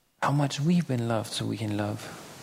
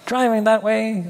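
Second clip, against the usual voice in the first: high, loud shout at a bad driver; mock road rage yell; 8 semitones higher, 9 dB louder than usual. Preacher imitates a stranger yelling at a driver. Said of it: "heard somebody yell at somebody else".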